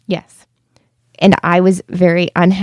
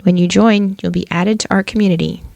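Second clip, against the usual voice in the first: upbeat sponsor ad read. Acted. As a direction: sell it like a podcast ad. Reads a sponsor ad.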